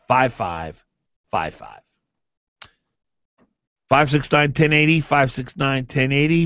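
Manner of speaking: upbeat, punchy sales pitch; radio ad read. Acted. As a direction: sell the roofing company like a live radio spot. Radio host reads a roofing ad.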